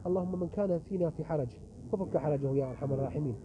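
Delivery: earnest closing prayer. Acted. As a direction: plead with God, rising at the end. Closing supplication.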